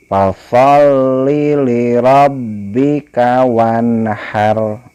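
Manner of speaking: slow, melodic chant with long vowels; Quran recitation. Shown as a demonstration. Teacher models the verse for pupils, slow chant. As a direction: recite slowly, stretching each vowel. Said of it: "tapi wanhar".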